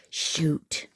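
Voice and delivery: breathy whispered shoot to herself; whispered curse. Real, not acted. Crafter realizing she forgot the brad, whispering. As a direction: mutter a caught-out curse under the breath.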